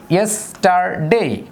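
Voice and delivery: ইয়েস্টারডে slowed, each syllable separate. Shown as a demonstration. Teacher slowly splitting ইয়েস্টারডে for students. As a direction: break ইয়েস্টারডে into its beats. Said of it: "যেমন".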